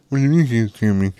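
fast, indignant mock retort; mocking the husband. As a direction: rattle it off like an offended man. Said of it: "he just looks at me like".

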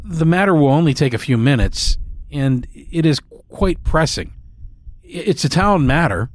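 a hint of a stiff elderly butler; old servant delivering a message. Old servant speaks in story.

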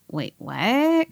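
mild confused surprise, rising at the end; taken aback. Retold or imitated. Boyfriend answering an unexpected call, taken aback. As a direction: imitate someone caught off guard. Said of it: "he kinda tripped out".

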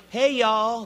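casual Southern "Hey, y'all"; Southern drawl greeting. Pretend. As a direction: toss off a Southern howdy. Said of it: "That's how we say it in the South".

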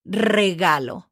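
Regalo with a long trilled R; Spanish Regalo, opening R strongly trilled; stronger R. Shown as a demonstration. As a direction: roll the R hard in Regalo. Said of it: "the sound is gonna be stronger".

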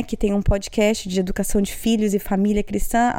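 usual speaking voice

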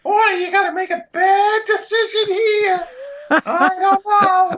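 high cartoon bird voice with a Bronx accent; comic high-pitched alien sidekick; little alien bird. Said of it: "a little alien that's there that's, like, a bird".

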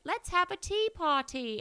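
high, drawn-out mock English accent; childish English accent. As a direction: put on a playful, high English accent, stretched out slowly. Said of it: "start talking in an English accent".

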